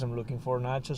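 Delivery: ordinary delivery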